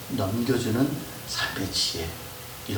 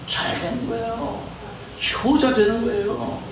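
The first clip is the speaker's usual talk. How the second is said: rising exclamation; 12 semitones higher than usual. Real, not acted. Second take, exclaimed.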